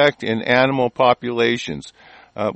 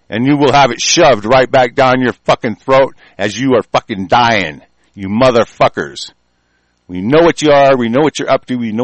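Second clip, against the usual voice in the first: loud, furious tirade building; angry rant; 5 dB louder than usual. Real, not acted. Host threatening the government over foreign law, a furious loud rant. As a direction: shout them down, fury rising.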